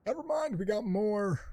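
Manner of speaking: loud, high-pitched exclamation; excited yell. Real, not acted. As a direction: yell it high as if suddenly swarmed.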